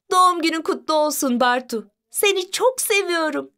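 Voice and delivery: put-on high, tender child-like wish; affectionate birthday wish. Sister hugs brother on his birthday, fond high-pitched wish.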